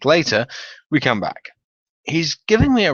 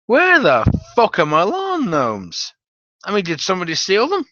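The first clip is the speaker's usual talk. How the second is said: upset outburst; 7 semitones higher than usual. Retold or imitated. Stoner upset about gnomes.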